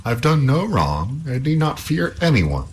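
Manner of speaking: slow, firm, lightly voiced hero; defiant youth. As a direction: refuse her steadily. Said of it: "cried Halvor".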